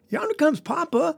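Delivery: little brother's high-pitched call. Acted. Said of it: "called out".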